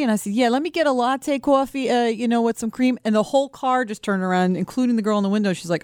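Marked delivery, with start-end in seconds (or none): 0.3-3.0 lightly played-up New York coffee order; a touch of retold New York twang; New York accent. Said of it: "nobody talks like that unless you're from New York".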